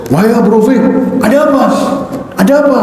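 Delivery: high concerned caller voice; disguised voice. Retold or imitated. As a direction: pretend to be a worried helper. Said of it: "membuat suaranya berbeda".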